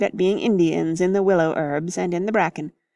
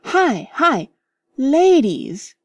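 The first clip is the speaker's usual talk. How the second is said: high, louder warning call; 7 semitones higher, 5 dB louder, much slower than usual. Acted. Mister Beebe warns the boys ladies are coming, loud call. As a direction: call out to warn them off.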